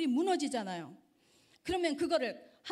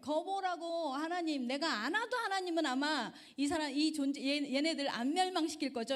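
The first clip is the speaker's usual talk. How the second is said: mild protest; 3 semitones higher than usual. Retold or imitated. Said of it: "막 항의합니다".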